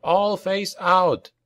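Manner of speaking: high, stretched-out command; called-out order. A narrator's reading. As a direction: call it slowly to the troops. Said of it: "called Oric".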